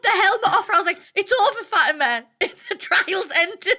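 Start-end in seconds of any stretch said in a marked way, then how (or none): 1.1-3.8 giggling as you tell her it's over; amused laughing call to Fatima; laughing through it. Retold or imitated. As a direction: break into laughter mid-line. Laughing while retelling the moment.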